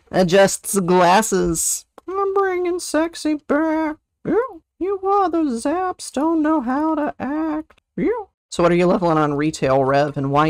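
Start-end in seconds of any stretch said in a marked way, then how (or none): 0.1-1.8 slow, deadpan gnome aside. Pretend. Streamer still in the gnome voice, slow. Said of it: "my gnome voice". 2.1-8.3 much higher, slow mock swagger; high silly voice. Streamer hamming at other shamans, high.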